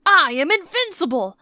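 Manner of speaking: loud, high triumphant villain; villain boast shout. Acted. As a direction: gloat it like a cartoon villain.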